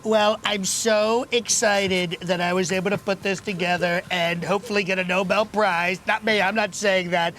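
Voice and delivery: a lightly voiced Trump, boastful and rambling; mock presidential swagger at a breakfast show; Donald Trump impression. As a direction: play the bragging president, easygoing. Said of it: "who's playing the role of Donald J Trump".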